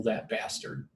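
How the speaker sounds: softly muttered under the breath; imitated mumble. Date curses somebody who came in, mumbled under her breath. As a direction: mumble it quietly to yourself, as she did. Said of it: "I heard her mumble".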